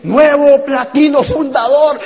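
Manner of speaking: loud, high, stretched-out announcement; seminar announcer. Retold or imitated. Seminar host recognizing a newly qualified friend, announcer's proclamation. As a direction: proclaim it like an award from the stage. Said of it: "al que me dijo así".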